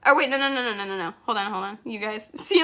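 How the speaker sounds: fighting back real tears; teary, flustered and breaking up; crying. Real, not acted. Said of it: "'cause I can't stop crying".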